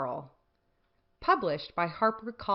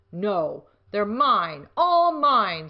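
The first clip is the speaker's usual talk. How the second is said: screaming grouchy; 2 semitones higher, 9 dB louder, much slower than usual. A narrator's reading. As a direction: claim it all, climbing up. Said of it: "screamed the grouchy ladybug".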